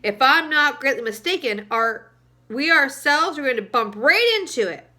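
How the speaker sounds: the centipede sharply warning of the crash. Acted. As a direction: snap the warning at the others. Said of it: "the centipede said sharply".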